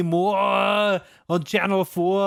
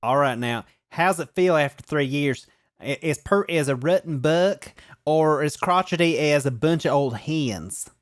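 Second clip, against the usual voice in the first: Southern accent. Shown as a demonstration. Host rereads the tweet for the A/B test in a Southern accent. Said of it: "give me some Southern flavor".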